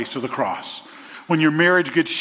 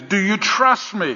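slow, higher divine question; voice from above; 5 semitones higher than usual. Retold or imitated. The Lord asks the man, slow question from above. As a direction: ask it slowly, like the Lord. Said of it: "the voice he hears back is".

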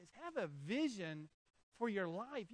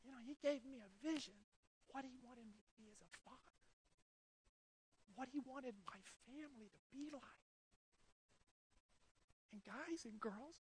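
choked up, voice catching; fighting back tears; voice breaking with emotion; 4 semitones higher, 12 dB quieter than usual. Real, not acted. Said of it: "Sorry, I get a little emotional".

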